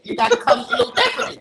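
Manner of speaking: high, breathy laughing line. Real, not acted. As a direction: laugh through the last words. Laughing end of the warning.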